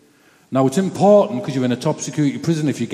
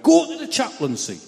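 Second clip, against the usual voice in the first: guard's order; 11 semitones higher, 3 dB louder than usual. Retold or imitated. Guard redirects him unexpectedly.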